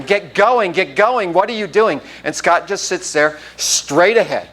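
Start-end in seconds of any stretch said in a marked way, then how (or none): 0.0-2.0 higher-pitched, only mildly raised yell; mock coach's yell. Coach running beside Scott in the lane, mock yell. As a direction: imitate a coach urging a runner on. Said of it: "yelling at him".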